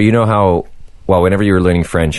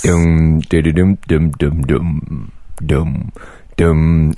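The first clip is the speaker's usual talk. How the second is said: vocal bass line; much slower than usual. Retold or imitated. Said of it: "started playing a bass solo".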